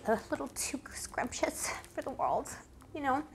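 soft whispered aside; whispering. Real, not acted. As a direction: whisper it like a secret.

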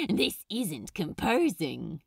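a casual shout over loud music. Acted. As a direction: call out above the band. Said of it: "he shouted over the band".

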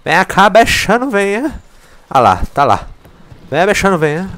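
high, loud sing-song coaxing; coaxing a pet. Pretend. Player coaxing the fleeing monster in game, high coaxing call.

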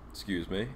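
sudden breathy hiccup. Real, not acted. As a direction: hiccup and excuse yourself. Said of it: "I have the hiccups".

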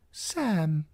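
put-on old man whispering. A narrator's reading. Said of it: "the old man whispered".

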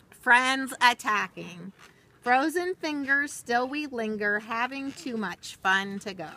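lilting, rhythmic storybook read; reading to children. Acted. Teacher reading a rhyming book to children, storybook lilt. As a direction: read the rhyme slowly to little listeners, sing-song. Reads picture book aloud.

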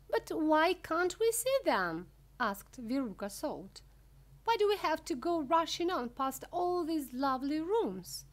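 put-on high, loud complaining child; Veruca Salt, complaining. Veruca protesting at being rushed past rooms, high complaint. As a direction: demand an answer, pitched high.

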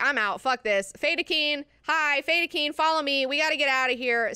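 loud, urgent call to her guards; rally the Fedaykin and get out; hammed-up exasperated shout; calling out loudly. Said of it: "Jessica's like".

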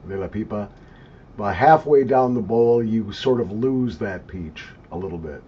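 talking around pipe stem; pipe in mouth. Real, not acted. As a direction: lips clenched on stem. Seen 2: Thin pipe stem held between lips until exhaling smoke near 3.7s.

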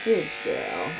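gentle reassurance to an animal; soothing. Real, not acted. Groomer comforting the dog on the table, soothing. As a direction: coo softly to settle a nervous dog.

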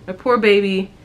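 mild mock crying, sweet and sympathetic; imitating tearful mother-in-law. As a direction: echo her weepy sympathy, only a touch of tears. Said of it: "She immediately starts crying".

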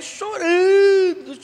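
drawn-out crying tone. Retold or imitated. Stretched word about her crying.

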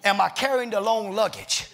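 driving, rhythmic church preaching; fervent preaching. Real, not acted. Preacher urging the church to take flight, fervent preaching. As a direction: preach it hard in rolling phrases.

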